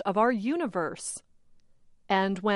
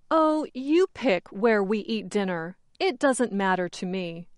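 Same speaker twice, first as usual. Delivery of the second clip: relaxed, agreeable, leaving the choice to them; willing to go along, not rude; easygoing. Shown as a demonstration. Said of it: "shows you are easygoing".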